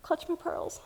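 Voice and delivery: high, soft clutch my pearls; mock scandalised. Speaker clutching imaginary pearls, softly mock scandalised. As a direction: play a prim scandalised lady lightly. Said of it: "I'm clutching them".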